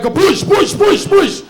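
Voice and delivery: high, loud repeated push; mock trainer yell. Gym trainer yelling at a client, hammed-up yell. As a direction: chant it like a drill trainer. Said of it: "this guy's just yelling at you around like".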